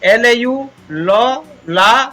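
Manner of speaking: letters slowly apart; slow sounding out. Shown as a demonstration. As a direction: spell it slowly like a teacher. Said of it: "लाफ". (धीरे धीरे अक्षर अलग अलग)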